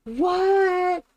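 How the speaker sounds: sudden high startled what; surprised what. Real, not acted. She blurts a startled what at the question. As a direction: caught off guard, pitch jumps up.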